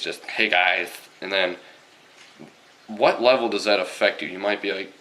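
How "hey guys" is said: lightly put-on camp greeting; mock camp voice, lisped; feminine gay stereotype. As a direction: imitate an effeminate man saying hello. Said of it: "just say they're feminine gays".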